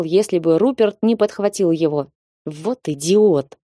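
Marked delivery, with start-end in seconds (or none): 2.5-3.6 slow, contemptuous through the teeth. Acted. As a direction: spit the insult out slowly. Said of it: "процедил лорд Сенклер".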